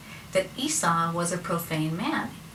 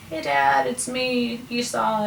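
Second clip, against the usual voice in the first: higher-pitched, put-on greeting to dad; mock-innocent hello, pitched up; son posing as brother; 6 semitones higher, 3 dB louder, slower than usual. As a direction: lightly act an impostor greeting his father. Jacob posing as his brother.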